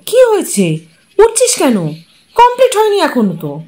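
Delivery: the uncle rushing in, alarmed and high-pitched. Acted.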